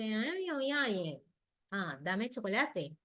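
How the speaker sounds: put-on whiny child voice, dragging "chocolate" out slowly; child asking for chocolate. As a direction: play the small child whining for a treat. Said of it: "él me dice".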